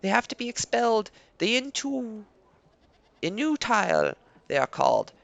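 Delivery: lightly voiced villager. NPC voiced in a game.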